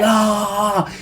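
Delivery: held-back mock yell; mock attack cry. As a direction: imitate firing lightning from the fingers. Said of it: "He's just like".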